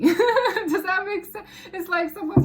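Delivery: amused, laughing through the question. Real, not acted. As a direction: laugh while checking in with viewers. Laughing after the reading.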